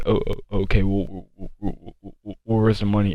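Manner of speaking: a hint of a dazed girl stammering on the w; lightly mocked, groggy stammer; imitating a sedated girl. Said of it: "how she was talking".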